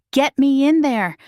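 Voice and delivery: loud, high roar at the barrier. A narrator's reading. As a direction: bellow it, desperate to get through. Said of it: "he roars at the barrier".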